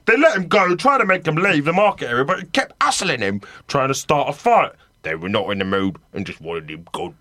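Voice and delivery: a light hint of Gary Busey reading the quote; Gary Busey impression. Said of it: "That was a great Gary Busey impression".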